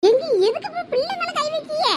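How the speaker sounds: high, outraged cry at husband; mother shielding daughter, high and angry; furious protest. Acted. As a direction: shriek at him to stop hitting the girl. Mother defends slapped daughter.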